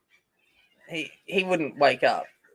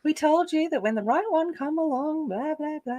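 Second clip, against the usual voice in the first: mock singsong told-you-so, higher; parents' told-you-so; 11 semitones higher than usual. Mocking her parents' told-you-so. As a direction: parents gloating, pitched up then trailing off. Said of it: "it'd have great pleasure in saying".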